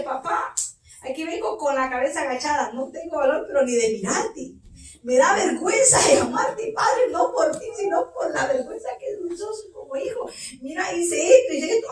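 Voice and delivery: crying, ashamed plea to Father; a child sobbing out shame to a father; tearful confession. Acted. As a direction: confess with breaking sobs.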